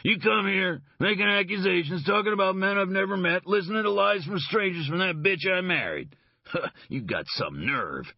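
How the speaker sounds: high, heated accusing tirade; a cornered man hitting back, ending in a scornful laugh; belligerent rant. Acted. Leger rants at the detective.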